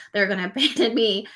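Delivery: laughing through the words; a real laugh breaking into the quote; giggling at something relatable. Real, not acted. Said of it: "I don't know why I'm laughing".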